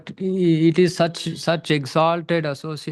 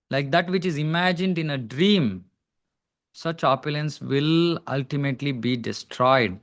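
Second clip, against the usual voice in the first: raised, deliberate read-aloud voice; scripture reading; 3 semitones higher than usual. Real, not acted. Teacher reads the verse's translation to devotees, deliberate recital. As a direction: read the translation out with measured emphasis.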